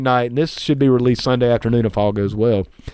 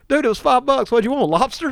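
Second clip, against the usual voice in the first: mock hooker voice; 9 semitones higher than usual. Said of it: "She's like".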